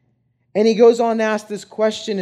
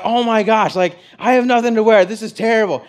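louder, half-mocking his own panic over the shirt; retold panic; 4 semitones higher, 3 dB louder than usual. Groom retelling his ruined-shirt meltdown, mock panicked. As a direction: replay the frantic moment, louder. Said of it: "And I'm freaking out".

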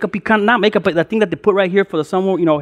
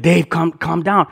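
slow, lower plea to settle down; calming; 3 semitones lower, slower than usual. Retold or imitated. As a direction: talk a worked-up buddy down. Friend soothing the angry man.

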